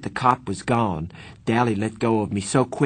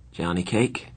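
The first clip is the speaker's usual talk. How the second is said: hoarse voice. Acted. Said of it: "he said in a hoarse voice".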